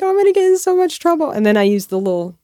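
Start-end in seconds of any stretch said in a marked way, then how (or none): 0.0-1.3 high, rushed mock fretting; higher-pitched, hurried worry, retold. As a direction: fret quickly, recalling being in trouble. Retold worried thought about trouble.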